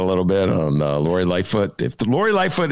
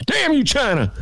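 Alex Jones impression. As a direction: bark it like a raving radio host. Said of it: "That's me imitating Dennis, imitating Alex Jones".

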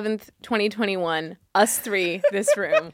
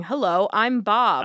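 deadpan voice; slower than usual. Retold or imitated. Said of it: "dead eyes, just going".

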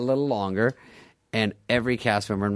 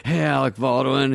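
higher-pitched imitation of a nervous pitcher; mock-nervous greeting, pitched up; nervous Farley; 4 semitones higher, 4 dB louder than usual. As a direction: greet the star by full name, nervously. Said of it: "he was always so nervous".

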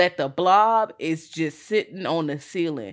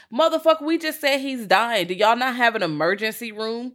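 angry retort; 5 semitones higher than usual. Retold or imitated. Retelling Paul at the front desk, mock furious yell. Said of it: "How can I help you?".

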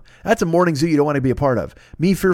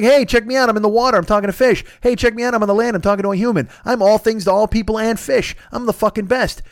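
higher, boastful bragging; show-off Aquaman; 5 semitones higher than usual. Pretend. Aquaman bragging to everyone, higher show-off voice. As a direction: brag like a showboating superhero. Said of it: "He's like".

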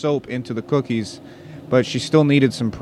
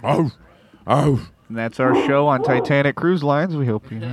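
announcer sign-off; 3 semitones higher, slower than usual. Pretend. Cruise show sign-off.

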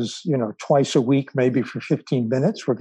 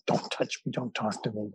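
curt leave-me-alone; 2 semitones lower, 9 dB quieter than usual. Retold or imitated. On-edge New Yorkers' mood.

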